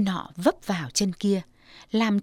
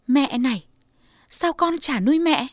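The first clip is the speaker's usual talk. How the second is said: higher, louder playful protest; indignant daughter; 5 semitones higher, 4 dB louder than usual. Acted. Daughter protesting to mother she'll care for her, higher and louder.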